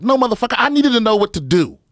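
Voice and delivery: high, loud, fed-up protest; exasperated outburst. Retold or imitated. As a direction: blurt it out in frustration. Retelling argument with strength coach.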